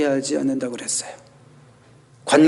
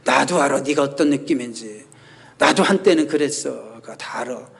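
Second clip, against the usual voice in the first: smug know-it-all. Retold or imitated. Preacher mimics an arrogant would-be counselor, mildly condescending. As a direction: lightly play a know-it-all counselor brushing feelings off. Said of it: "약간 거만한 표정과 그 말투로".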